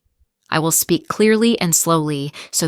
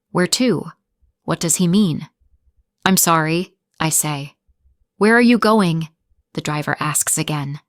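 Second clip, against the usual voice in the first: clear, steady storytelling for English learners; story narration. Acted. Teacher reading a learner story aloud, clear and steady. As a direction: read the story evenly for students to shadow.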